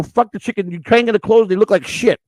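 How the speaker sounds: mock angry yell; retold yell at a worker. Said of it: "I yell at Frank".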